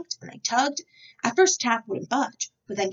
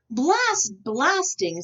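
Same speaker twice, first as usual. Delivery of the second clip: slow loud dismissal; 6 semitones higher, 4 dB louder, much slower than usual. A narrator's reading. Said Taft.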